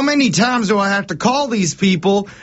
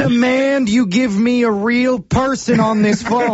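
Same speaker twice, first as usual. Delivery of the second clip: raised, insistent demand; 5 semitones higher than usual. Pretend. Caller demanding a real person.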